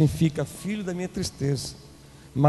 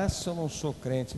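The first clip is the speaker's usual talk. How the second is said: mock muttered threat; 2 semitones lower, 8 dB quieter than usual.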